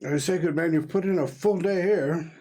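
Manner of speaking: lightly voiced old-fashioned chap; genial gentleman. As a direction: greet a colleague with formal good cheer. Hearty greeting in character.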